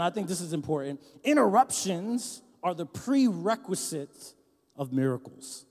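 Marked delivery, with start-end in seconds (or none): 1.2-5.6 slow, deliberate dictation pace. Shown as a demonstration. Pastor to congregation, dictating slowly so they write it down. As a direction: spell it out slowly for note-taking. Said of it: "and write this down".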